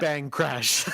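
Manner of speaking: mock shouted sound effects. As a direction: yell it out like a cartoon crash. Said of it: "And she yells out".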